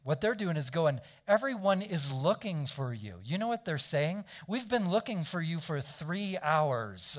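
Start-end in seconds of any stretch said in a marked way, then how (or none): 1.3-3.2 pointed, mildly snarky complaint; disrespectful. Retold or imitated. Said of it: "they're becoming disrespectful". 4.5-7.2 imitated exasperation, slow and pointed; mildly mock-indignant, stretching the complaint out; freaking out, disrespectful. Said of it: "They're freaking out".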